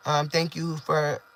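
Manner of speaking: soft, slow, holding back tears. Real, not acted. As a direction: near tears, trying not to cry. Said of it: "I'm trying not to cry".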